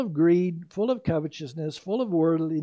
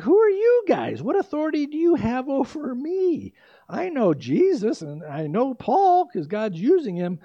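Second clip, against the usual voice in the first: much higher and louder, a mock demon yelling at the exorcists; demon's loud challenge; 7 semitones higher, 5 dB louder than usual. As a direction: bellow it like an offended demon. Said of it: "So they're like".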